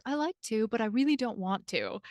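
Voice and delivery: lightly imitated British accent, pleasantly lilted; a hint of a polite British boss; nice British boss. British boss turning down a request, lightly imitated British accent. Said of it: "it just sounded nice when he said it".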